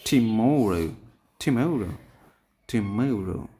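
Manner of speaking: টিমোরো with মো punched; stress on middle syllable. Shown as a demonstration. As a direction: lean hard on the মো of টিমোরো. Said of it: "মোরের পরে আমরা stress দেব".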